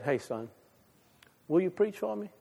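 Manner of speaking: soft, hushed invitation; gentle call. Retold or imitated. God gently asks the fisherman to preach for him. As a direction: ask him tenderly and quietly.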